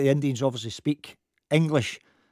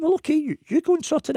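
much higher, huffy comeback; mock huffy reply; 13 semitones higher than usual. Narrator mocking his huffy reply to Sandy, pitched high. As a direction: toss it back at him in a high voice.

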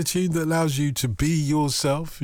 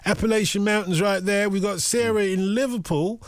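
put-on high American accent; host reading out the caller in an American accent; 7 semitones higher than usual. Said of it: "why am I doing this American accent".

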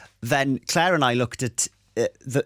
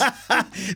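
giggle; 12 semitones higher than usual. Real, not acted. Laughing at the teasing.

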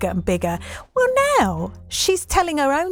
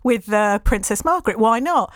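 tipsy inner voice; faster than usual. Retold or imitated. Host voices the tipsy author.

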